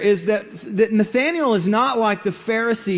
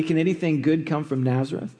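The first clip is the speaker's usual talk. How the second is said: quick, dry, mildly scoffing question; sarcastic; 3 semitones lower, 4 dB quieter, faster than usual. Acted. Nathanael scoffing to Philip about Nazareth, lightly sarcastic. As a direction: toss it off with a light sneer at the small town. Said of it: "Nathanael says sarcastically".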